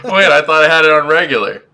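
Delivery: sped-up chipmunk voice; chipmunk voice filter. Real, not acted. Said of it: "it's still the baby voice".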